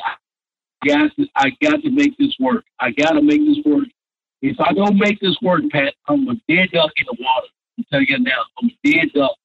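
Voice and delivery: high, urgent pleading to a friend; begging him to let it work, voice up high; retold pleading.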